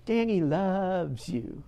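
slow, drawn-out echo of the lady; slowly recalled reassurance; tender echo. Retold or imitated. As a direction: let the remembered words linger. Recalls the lady's soothing words.

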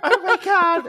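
oh my God squeaked out high through laughter; laughing. Real, not acted. Podcast host cracks up at the tutor joke, laughing. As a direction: crack up while you say it. Cracking up over tooting ghost.

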